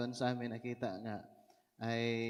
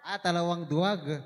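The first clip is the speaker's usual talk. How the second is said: pleased realization; 4 semitones higher, 8 dB louder than usual. Real, not acted. Finds the word, exclaims.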